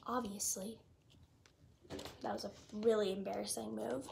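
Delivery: sheepish hushed whisper; embarrassed whisper after her slip; whispered aside. Real, not acted.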